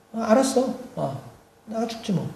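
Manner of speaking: put-on soft, resentful teenager's retort; sullen son. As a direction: give in quietly, hurt and cross. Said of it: "화가 나 있는 상태에서".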